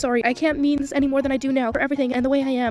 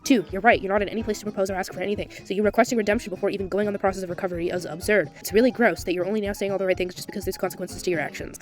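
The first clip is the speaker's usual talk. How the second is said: a lightly voiced, lower and cooler Soph; calm, cold replies to the apologizer; lower reading voice for Soph; 7 semitones lower than usual. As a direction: read her replies a touch lower and flat. Soph's chat replies read aloud.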